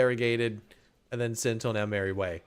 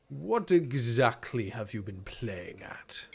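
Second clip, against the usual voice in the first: lightly voiced deep interrogator; a slow, measured hint of a deep man; deep resonant man; 3 semitones lower, slower than usual. Man questions the spy, lightly deepened voice. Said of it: "A man's voice, deep, resonant".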